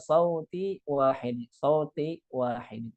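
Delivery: drawn out "sauti wahid"; slow, deliberate. Shown as a demonstration. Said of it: "dengan suara yang satu". (pelan dan jelas)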